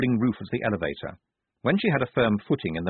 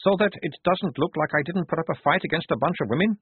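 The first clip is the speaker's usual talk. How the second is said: wretched; 7 semitones higher than usual. A narrator's reading. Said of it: "he said, looking wretched".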